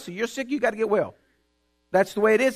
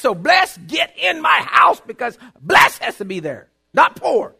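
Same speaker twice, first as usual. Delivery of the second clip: rising into a shouted declaration; declaring prayer; 3 semitones higher than usual. Retold or imitated. Preacher reenacting prayers on his porch, building to a shout. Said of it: "And I'd say".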